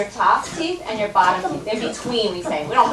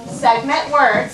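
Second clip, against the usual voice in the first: slow and deliberate; 3 dB louder, slower than usual. Shown as a demonstration. Teacher modelling a phrase slowly for the child to repeat. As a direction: say each word slowly and clearly. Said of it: "repeat after me".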